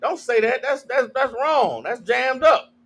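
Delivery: lightly acted disciple objecting in earnest; Peter. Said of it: "Peter like".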